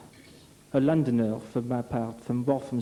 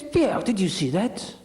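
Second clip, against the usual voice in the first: amazed; 5 semitones higher than usual. Acted. Gendarme amazed at passing snail.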